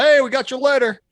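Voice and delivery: loud, high call across the yard; retold husband calling out loudly. Customer's husband calls out to him.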